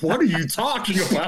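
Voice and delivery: high-pitched, panicky mock question; retold terrified bewilderment. Teenager answering a threatening caller, bewildered and frightened. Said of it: "I'm, like, terrified".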